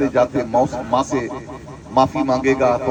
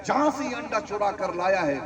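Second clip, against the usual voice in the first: much higher, sharp mock reprimand; a mother scolding her thieving boy; 5 semitones higher than usual. Mother scolding her son for the stolen egg, high and stern. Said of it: "اور کہتی".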